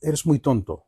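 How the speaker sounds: soft, affectionate teasing; a loving little scold; said with love. Shown as a demonstration. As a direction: call him a fool tenderly. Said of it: "ये प्यार से मैं कह रहा हूँ".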